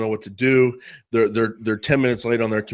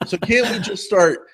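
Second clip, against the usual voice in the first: usual speaking voice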